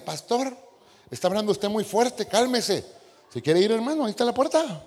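más agudo y más fuerte; agitated exchange. Retold or imitated. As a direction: discute con energía, retador. Feligrés y pastor discuten. (el pastor reta al feligrés, agudo y fuerte)

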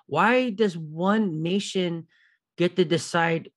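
normal talking voice

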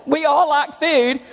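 slow, amused aside; laughing. Real, not acted. To the church, joking about food, laughing slowly. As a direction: let a chuckle carry it.

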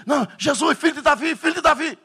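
high, loud anguished cry; demon crying out. Retold or imitated. Possessed man cries out high and loud. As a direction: wail like a tormented spirit.

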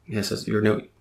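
over-the-top advice column read; mock magazine advice read. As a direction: read it like a teen magazine tip.

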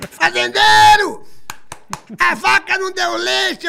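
high, slow, drawn-out yelling woman; mock yell from outside. Nani People yelling at the farmer's door, mock shrill shout. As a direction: bang on the door and bellow for the farmer.

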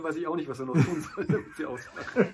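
ordinary delivery

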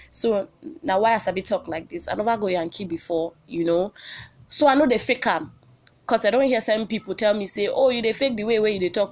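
switching into Nigerian Pidgin. Real, not acted. Podcast host explains her accent to listeners, in Nigerian Pidgin. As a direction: talk it in easygoing Nigerian Pidgin. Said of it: "I feel speak pidgin".

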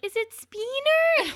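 high, slow exaggerated Italian accent; hammed-up Italian mom, stretched out; mock Italian accent. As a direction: imitate a heavy Italian accent. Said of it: "super Italian sounding".

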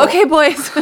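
loud, high mock-manic call; rally the boys in a comic frenzy; acted-out frantic dad. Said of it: "manically packing and frantic, like".

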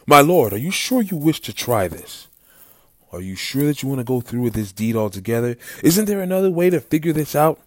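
anxious high plea, pitch swinging up; worried servant. A narrator's reading. Knox begging his lord to reconsider, worried high plea.

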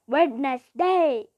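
loud, drawn-out WEDNESDAY; emphatic announcement. Shown as a demonstration. Narrator redoing the diary heading, called out emphatically. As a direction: call the day out loud and slow.

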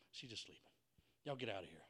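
very soft, low voice; calm quiet dismissal. Acted. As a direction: send them out without raising your voice. Jesus calmly sends mourners out.

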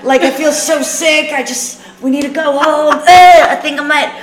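mock sick girls. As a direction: pretend to feel ill to escape. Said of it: "And the girls are like".

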